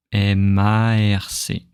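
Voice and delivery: a slow M A R C, letters linked; connected spelling. Shown as a demonstration. Teacher spelling the name for students. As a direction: draw the letters out, joined together. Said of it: "So it's spelling, right?".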